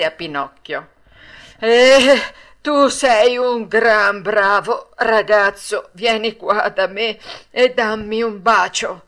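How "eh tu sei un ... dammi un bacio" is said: loud, slow, moved puppet master; affectionate. A narrator's reading. Puppet master, moved, embraces Pinocchio, loud and affectionate. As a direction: draw out the praise, loud and fond. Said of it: "aprì affettuosamente le braccia e disse".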